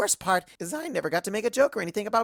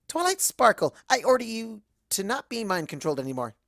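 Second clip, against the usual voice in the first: mock command; 4 semitones higher than usual. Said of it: "I say".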